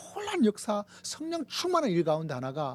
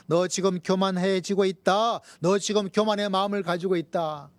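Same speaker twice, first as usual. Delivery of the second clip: louder, deliberate admonition; firm, raised preaching rebuke; stern rebuke; 6 dB louder than usual. Acted. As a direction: voice a divine warning with force. Preacher voices the Spirit's rebuke.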